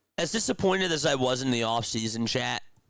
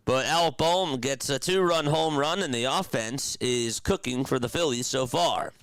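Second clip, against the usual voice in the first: lively sportscaster call, pitched up; play-by-play recap; 3 semitones higher than usual. Real, not acted. Streamer recaps the Phillies' inning, lively play-by-play. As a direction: sum up the inning like a broadcaster.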